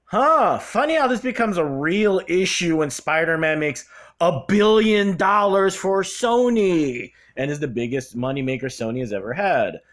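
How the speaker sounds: lightly voiced mocking snicker; snickering aside. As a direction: say it like a sarcastic side remark. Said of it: "people have kinda snickered".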